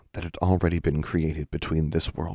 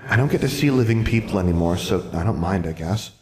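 put-on a lonely child shrugging it off; lightly voiced ghost girl; 3 semitones higher than usual. Ghost girl telling Alexandra she rarely sees the living, lightly childlike.

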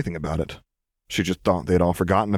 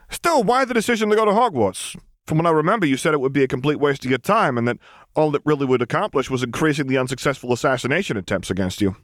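curious man voice; 7 semitones higher than usual. Acted. Frank asking.

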